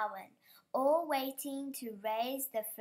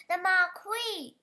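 higher, louder yell of alarm; 7 semitones higher, 8 dB louder, slower than usual. A narrator's reading. Farmer yelling about the falling marquee, loud panic. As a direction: bellow it in panic. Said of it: "yelled the farmer".

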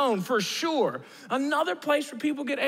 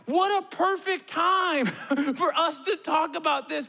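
laughing; 4 semitones higher than usual. Real, not acted. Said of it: "I'm like".

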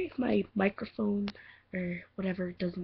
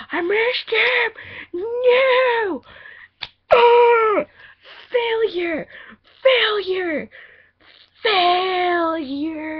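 much higher and louder, anguished cries; frustrated yelling; 14 semitones higher, 13 dB louder, much slower than usual. Real, not acted. Girl yelling at herself after messing up the take, frustrated shouts. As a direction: wail at her own blunder, shouting "Failure!".

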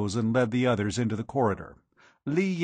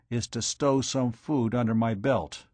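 ordinary delivery, nothing marked

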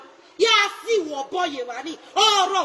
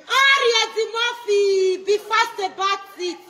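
higher, louder, stretched-out hurry; slow urgent call; 4 semitones higher, 4 dB louder than usual. Real, not acted. Urging Eddie Murphy to hurry to court, loud call.

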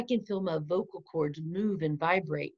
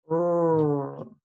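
R sound demo. Shown as a demonstration. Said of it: "Watch me make both sounds".

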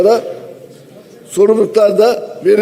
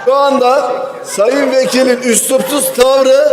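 indignant shout; 3 semitones higher than usual. Real, not acted. Protesting rude interruption.

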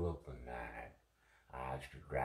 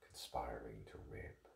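whisper; 4 semitones lower, 7 dB quieter than usual. Acted. Actor voicing dark theories.

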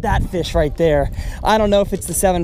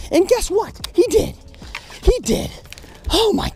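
much higher, squealing with joy; excited squeal; 13 semitones higher than usual. Real, not acted. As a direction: squeak it out in delight. Fish hits where he daydreamed.

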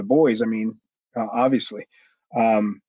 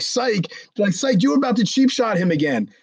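high-pitched incredulous echo; mock disbelief; 8 semitones higher than usual. The boys mocking Chad's fake-out, high incredulous jeer. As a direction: imitate a crowd calling out his lie. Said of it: "everybody lost their, they're like".

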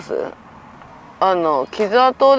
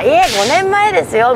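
acted reply; 9 semitones higher, 4 dB louder than usual. Acted reply in retold exchange.

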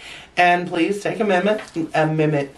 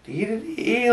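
druggy singsong; 4 semitones higher, 4 dB quieter than usual. Retold or imitated. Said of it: "I'm still just like".

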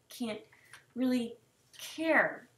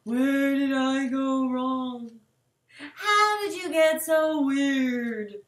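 imitating dad; slower than usual. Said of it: "he's continually saying".

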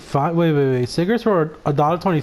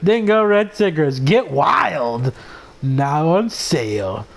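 mock commercial; slower than usual. Shown as a demonstration. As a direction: pitch it like a tacky TV spot. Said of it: "I mean, Ding".

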